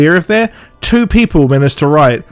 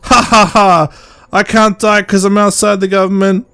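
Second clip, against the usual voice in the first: mock villain laugh; 5 semitones higher than usual. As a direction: ham up the smug villain. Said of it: "she's like".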